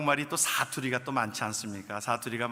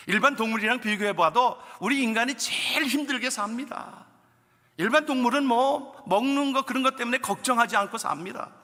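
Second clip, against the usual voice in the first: raised, high, louder preaching voice; fervent preaching; 8 semitones higher, 4 dB louder than usual. Real, not acted. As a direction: preach it with full conviction. Preaching at full force. (힘찬 설교 톤)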